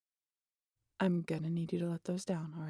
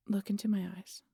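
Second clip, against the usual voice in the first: cheesy hypnotist line; 3 dB quieter than usual. Acted. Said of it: "God, that's cheesy".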